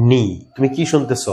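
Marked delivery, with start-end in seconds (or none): 0.1-0.2 নি said as "nee", k dropped; teacher asks pupils to listen for the missing k; silent k. Shown as a demonstration. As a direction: model নি with no k sound. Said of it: "এটার উচ্চারণ হচ্ছে".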